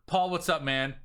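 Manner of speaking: stiff scripted sales pitch opener; salesy message read. Retold or imitated. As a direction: read it like a canned sales template.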